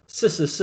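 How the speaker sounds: put-on "s, s, s" as Taiwanese-accented "si". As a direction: mimic a shopkeeper saying "s, s, s" with no sh. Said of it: "don't pronounce the sh sound properly".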